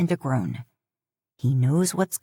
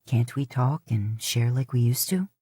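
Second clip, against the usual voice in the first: disheartened; 5 semitones lower than usual. Acted. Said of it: "His voice is disheartened".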